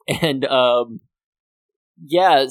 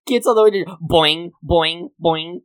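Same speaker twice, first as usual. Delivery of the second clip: higher, louder, fast excited retelling; 6 semitones higher, 5 dB louder than usual. Real, not acted. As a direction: race through it, worked up. Excitedly retelling pogo scene.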